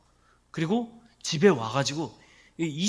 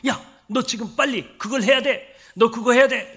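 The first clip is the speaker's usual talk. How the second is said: slow, loud pushy threat voiced as Satan; Satan threatening; 4 semitones higher, 8 dB louder than usual. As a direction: press them hard, like a tempter. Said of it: "이러면서 막 협박하죠". (다그치는 사탄의 협박조)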